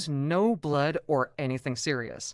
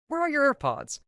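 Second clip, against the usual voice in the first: higher still, pushed and insistent; more frantic repeat; 11 semitones higher, 3 dB louder than usual. Retold or imitated. Friend repeats the question, mock frantic and breathless. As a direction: repeat it, more desperate this time. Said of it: "came running over all out of breath".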